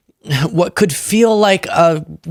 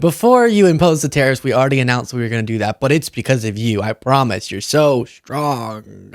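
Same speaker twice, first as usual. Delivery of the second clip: Canada; 3 semitones lower than usual. Retold or imitated. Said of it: "Canada, as we talked about, announced".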